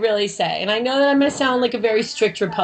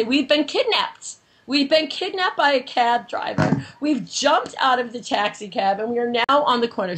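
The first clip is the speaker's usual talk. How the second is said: retold emergency call; 2 semitones lower than usual. Acting out her 911 call.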